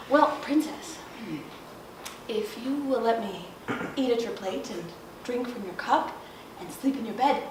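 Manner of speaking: low, soft frog voice; bargaining frog. A narrator's reading. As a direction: lay out terms low and unhurried.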